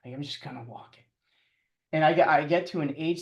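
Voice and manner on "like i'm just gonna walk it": softer, quicker resigned aside; quiet retold giving up; resigned self-talk. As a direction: give in to walking it. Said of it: "I was just like".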